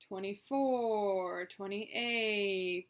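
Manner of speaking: loud, drawn-out numbers running smoothly together; strung-out counting. Shown as a demonstration. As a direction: stretch each number long, a little above conversation loudness. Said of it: "just to string out the numbers".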